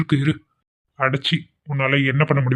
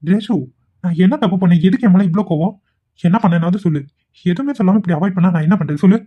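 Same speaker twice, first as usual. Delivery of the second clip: higher, pleading put-on innocence; fake pleading; 4 semitones higher than usual. Vikram pleads with Reshu, faking hurt innocence. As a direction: whine like a wronged lover to win her over. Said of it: "என் கண் முன்னாடி இப்படி drama பண்றானே".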